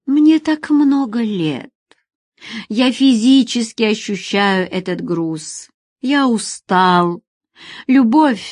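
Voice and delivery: slow, heavy, tired; aging man asks her to leave; weary old man. Acted. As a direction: speak as if carrying years.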